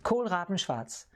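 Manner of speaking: Kohlraben schwarz said at normal speed as one phrase. Shown as a demonstration. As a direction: run Kohlraben schwarz together in one breath. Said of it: "Now say it all in one sentence".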